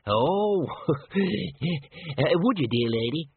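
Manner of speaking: high squeaky little man with a laugh. A narrator's reading. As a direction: accept shyly in a squeaky voice. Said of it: "said the man in a squeaky voice".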